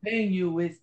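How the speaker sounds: Teddy KGB. Acted. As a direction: put on a bad Russian accent, slowing at the end. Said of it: "You want my best Teddy right now?".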